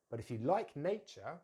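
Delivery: careful teacher's model, stressed "But"; full sentence for learners to copy. Shown as a demonstration. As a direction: clear key words, linked weak forms. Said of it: "say the complete sentence".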